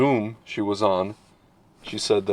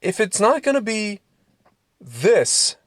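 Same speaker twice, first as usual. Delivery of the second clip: imagined retort; 10 semitones higher than usual. Retold or imitated. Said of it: "I wanna write this guy".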